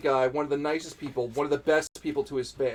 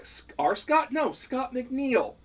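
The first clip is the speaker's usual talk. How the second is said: mock surprise; 9 semitones higher, much slower than usual. Retold back-and-forth about Scott.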